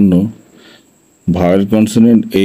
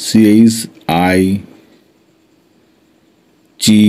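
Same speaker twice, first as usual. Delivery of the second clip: slow, spaced-out phonics recitation; spelling drill; slower than usual. Shown as a demonstration. Teacher reading out letter combinations for learners to practise, slow spelling drill. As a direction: recite each spelling and its sound with long pauses.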